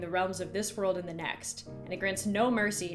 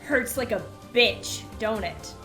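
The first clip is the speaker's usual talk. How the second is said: voice thick with rage; 4 dB louder than usual. Acted. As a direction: threaten the brats with cold fury. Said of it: "in a voice thick with rage".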